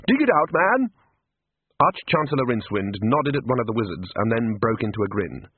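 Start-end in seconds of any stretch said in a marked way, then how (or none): 0.1-0.9 loud, high hearty order; hearty command. Acted. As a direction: call it out cheerily. Rincewind orders a wizard.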